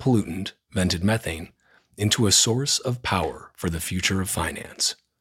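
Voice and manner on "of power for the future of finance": ordinary talk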